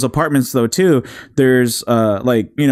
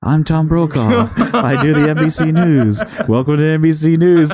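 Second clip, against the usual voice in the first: same bland anchor voice, slowish; lightly voiced newsman; a hint of a TV news read; mock Tom Brokaw impression. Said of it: "It's the same voice".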